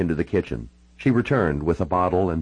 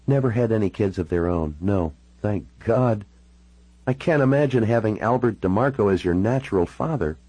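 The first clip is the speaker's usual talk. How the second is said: lightly voiced woman, a little higher, with pauses; Natalie relieved; 4 semitones higher than usual. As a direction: answer in a lightly played female character voice.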